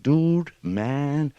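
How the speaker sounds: high, loud, lightly acted appeal; urging cat. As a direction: push it up high to coax a pal. Cat urges rabbit to have fun.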